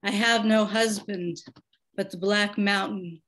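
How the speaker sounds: measured, pausing poem recital; poem reading. Acted. Poet reading her insomnia poem to the audience, measured recital. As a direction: read each line with weight and space.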